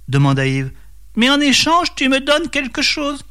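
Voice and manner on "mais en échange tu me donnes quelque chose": high-pitched storybook snake voice; hissing serpent. A narrator's reading. Devil as serpent offering a mill, high hissing voice. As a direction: play a sly serpent in a high register. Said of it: "siffla-t-il".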